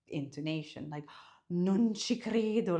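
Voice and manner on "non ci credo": nice, impressed. Shown as a demonstration. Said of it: "make it sound nicer or meaner".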